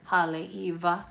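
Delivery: haleiwa with a V in place of W. Shown as a demonstration. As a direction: pronounce the W in haleiwa as V. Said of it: "with the V".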